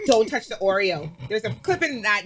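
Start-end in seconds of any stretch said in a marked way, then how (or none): 0.1-1.1 firm warning. Retold or imitated. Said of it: "And I said on set".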